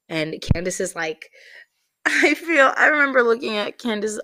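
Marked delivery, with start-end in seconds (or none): 1.7-4.2 high, loud laughter through the words; laughing while talking. Real, not acted. Recalling the friend's face now it's over, real laughter. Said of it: "I can laugh now 'cause it's over".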